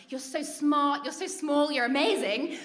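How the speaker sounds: mock gushing praise. Chalet crowd praising the found child, mock gushing. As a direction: imitate adults fawning over a clever child.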